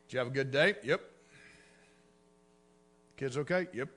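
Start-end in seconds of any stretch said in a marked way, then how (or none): 0.1-0.7 husband asking quietly. Retold or imitated. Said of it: "It's called the silent treatment".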